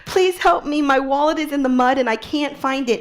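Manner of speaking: high, loud, laughing relief; relieved plea. Retold or imitated. Stranded tourist begging the English speaker, high and relieved. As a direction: burst out in grateful relief.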